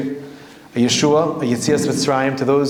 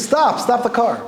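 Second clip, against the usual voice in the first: narrated scream; 8 semitones higher, slower than usual. A narrator's reading. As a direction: cry out high, drawn out, without real shouting. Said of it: "he screams".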